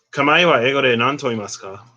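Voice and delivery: careful Japanese; Japanese question. Shown as a demonstration. Asking Siri the English for ringo, careful Japanese. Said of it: "asks Siri".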